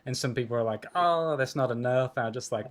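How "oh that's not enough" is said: mock complaint. Objectors voiced in a story.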